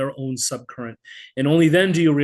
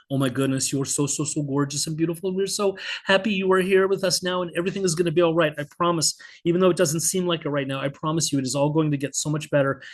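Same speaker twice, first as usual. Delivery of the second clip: babbling to newborn; 2 semitones higher, faster than usual. Retold or imitated. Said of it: "I begin babbling nonstop".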